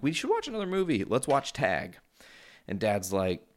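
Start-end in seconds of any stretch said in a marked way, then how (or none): 0.0-2.0 excited. Retold or imitated. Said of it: "I'm like".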